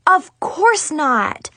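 high, drawn-out emphatic denial; acted exclaimed reassurance; yelled. A narrator's reading. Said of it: "I yelled".

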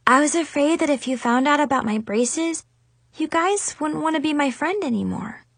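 hurt, high-pitched confession; sniffling. A narrator's reading. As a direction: admit your fear in a small, high voice. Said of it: "Chloe sniffed".

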